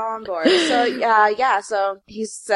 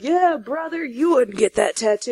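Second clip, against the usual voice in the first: mock Southern accent; 4 semitones higher, 4 dB quieter than usual. Friends daring the tattooed guy, in a hammed-up Southern accent. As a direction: play a Southern good ol' boy egging him on, lightly. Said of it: "I don't know why I'm giving him that accent".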